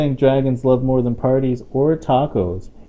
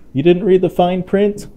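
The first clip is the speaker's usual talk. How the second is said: alarmed surprise; 9 semitones higher, 7 dB louder than usual. Acted. Alarm over spicy salsa in story.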